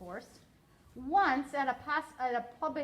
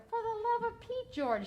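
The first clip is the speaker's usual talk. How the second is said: exasperated shout; 11 semitones higher than usual. A narrator's reading. Mother shouting at father to get on with it. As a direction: pitch jumps high on for the love of Pete. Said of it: "shouted her mother".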